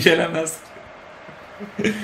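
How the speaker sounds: a soft, slow, giggling "gelemez ki"; laughing taunt. Real, not acted. Gamer laughing at Benfica's attack as he taunts them. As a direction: tease them through a laugh, drawn out.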